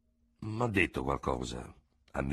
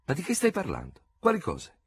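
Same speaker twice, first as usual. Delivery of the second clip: baffled; 12 semitones higher, 3 dB louder than usual. A narrator's reading. Dubert baffled by the doctor.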